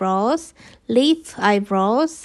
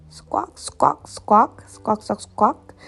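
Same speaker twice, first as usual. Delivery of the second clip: bird squawks. Acted. Birds squawk in story.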